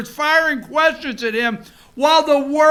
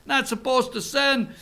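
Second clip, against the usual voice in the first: Trump going New Yorker. Retold or imitated. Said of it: "I love when Donald Trump goes New Yorker".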